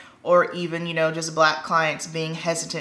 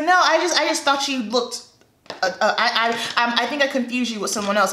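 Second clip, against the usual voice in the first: flustered stammer; 4 semitones higher, faster than usual. Retold or imitated. Flustered client stammering excuse.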